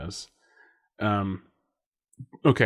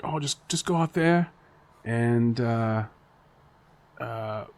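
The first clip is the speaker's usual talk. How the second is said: attempted Australian accent; 3 semitones higher than usual. Voicing teachers sending him out.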